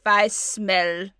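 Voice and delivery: put-on tentative Russian-accented Baba Yaga; hesitant Russian character line. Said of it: "Let's hear your Baba Yaga Russian".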